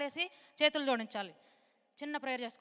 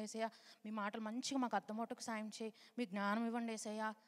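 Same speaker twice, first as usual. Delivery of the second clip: model prayer. Shown as a demonstration. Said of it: "అని prayer చేసుకోండి".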